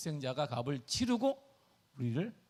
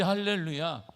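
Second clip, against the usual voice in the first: loud ringing hallelujah; hallelujah call; 8 dB louder, slower than usual. Real, not acted. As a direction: call it out to the congregation. Preacher's exultant call.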